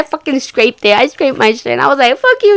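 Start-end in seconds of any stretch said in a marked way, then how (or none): 2.2-2.5 high, loud retort; retold cursing out. Scraped herself, cursing out stepbrother. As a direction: throw it back high and loud.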